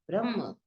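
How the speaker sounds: ब्रह्म said with a short final a, not a long aa; ब्रह्म, short ending, not Brahma; ब्रह्म not ब्रह्मा. Shown as a demonstration. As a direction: say ब्रह्म short and clipped at the end, never ब्रह्मा. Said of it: "ये ब्रह्मा नहीं है".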